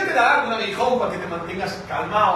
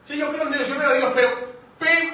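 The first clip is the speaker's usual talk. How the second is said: higher voice, yelping ay on the pim; mock half-believer; 5 semitones higher than usual. Preacher voicing a reluctant believer, high mock yelp. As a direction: play the grudging believer who keeps getting hurt.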